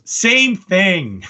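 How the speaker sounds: put-on deadpan it like a stubborn child; kid's punchline. Little boy insisting to his dad, stubborn kid voice. Kid in retold doorbell video.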